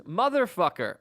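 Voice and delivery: toned-down mock yell; half-hearted imitation of a scream; retold scream. Retelling a passenger's outburst to a co-host, mild mock scream.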